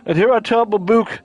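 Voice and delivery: laid-back surfer dude. Acted. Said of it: "I'm just gonna give him the surfer dude voice".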